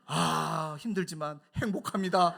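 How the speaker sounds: lightly voiced put-on cheerful piety; mock pious answer. Friend suddenly sounds devout before elder pastor, mock pious. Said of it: "갑자기 말이 바뀌어요".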